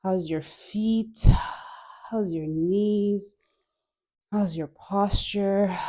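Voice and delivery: slow, spaced-out questions; unhurried body check, word by word; calm instructor checking in on the class. Shown as a demonstration. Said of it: "take a check in".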